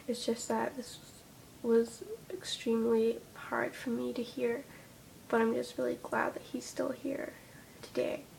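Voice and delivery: teary, hushed and shaky voice; holding back tears while speaking; after crying. Real, not acted. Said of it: "I'm starting to get teary-eyed".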